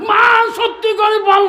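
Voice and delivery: "মা সত্যি করে বল" shouted high and loud; shouting demand. Acted. Son demands truth from mother.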